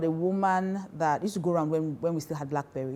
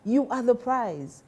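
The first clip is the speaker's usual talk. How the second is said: "You are the prize" very slow, pitch higher, You stressed; slow emphatic You; 7 semitones higher, 4 dB louder, slower than usual. Shown as a demonstration. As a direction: lift it up slowly, hit "You". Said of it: "I say this all the time".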